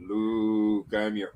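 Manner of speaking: low, soft villain voice; a hint of the helmeted villain; Darth Vader voice. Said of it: "Then he'd be like".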